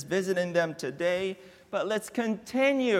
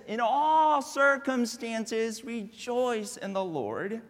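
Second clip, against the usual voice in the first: fading scripture quote; slower than usual. Acted. Pastor closing Paul's words to the congregation. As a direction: let the verse settle gently. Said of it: "And so he says".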